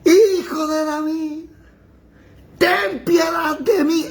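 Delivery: high, slow, crying shout; desperate cry for mercy. Acted. Crowd crying out to Jesus as he passes, a high tearful shout. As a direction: wail it out, begging the passing king for pity. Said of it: "Pegaba el grito".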